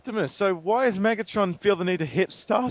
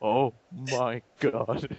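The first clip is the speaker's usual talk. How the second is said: slow, lower, stunned; Optimus in shock; 4 semitones lower, much slower than usual. Retold or imitated. Optimus in shock after the fight, slow dazed voice. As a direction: drag it out, dazed. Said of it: "in shock".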